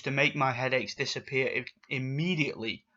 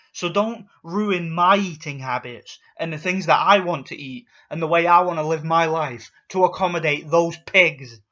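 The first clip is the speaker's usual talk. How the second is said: getting angry; 4 dB louder than usual. Real, not acted. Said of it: "damn right I'm getting angry".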